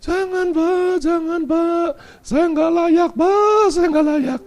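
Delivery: high wailing plea; acted tearful protest. Pastor protests while his feet are washed, imitated weeping. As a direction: imitate a man crying that he is unworthy. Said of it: "Sama nangis".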